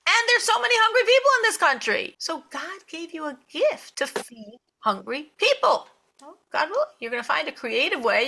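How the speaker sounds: high-pitched, swelling fervor; impassioned urging. Retold or imitated. Rebbe urging congresswoman to feed hungry people, impassioned. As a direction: act out a mentor's insistent encouragement. Rebbe urges her, acted out.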